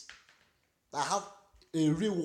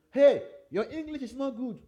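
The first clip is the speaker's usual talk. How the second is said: higher, louder imitation of a critic; mock complaint; 8 semitones higher, 7 dB louder than usual. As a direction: call it out like a heckler being imitated. Voicing critics of his English.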